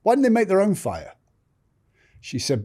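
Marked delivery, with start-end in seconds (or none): 0.0-1.1 higher, exasperated retold rant; fed-up outburst. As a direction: vent like you've had enough. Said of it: "I said".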